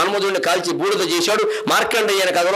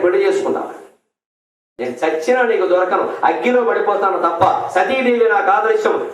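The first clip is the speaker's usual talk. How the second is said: louder, hurt and accusing; indignant Sita; 3 dB louder than usual. Acted. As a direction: hurl the words at Lakshmana. Sita berates Lakshmana, voiced. (లక్ష్మణుడిపై Sita కోపంగా నిందించడం)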